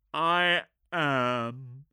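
terse warrior voice; gruff space marine. Acted.

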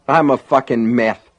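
lisping through a split lip; slurred, broken-mouth mumble; mushy, dazed voice. Acted. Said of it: "in a mushy, dazed voice".

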